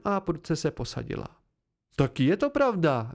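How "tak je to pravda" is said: a touch louder, quick blurt. Acted. Pente blurting out her surprise, a little louder.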